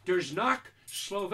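slow mystical magic words; magic incantation. Shown as a demonstration. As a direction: intone it like a spell.

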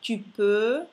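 "tu peux" loud, "peux" pushed from the diaphragm; EU sound. Shown as a demonstration. Teacher repeats after explaining, loud pushed EU. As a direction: push air through a rounded EU in "peux". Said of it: "Solo il diaframma che spinge l'aria".

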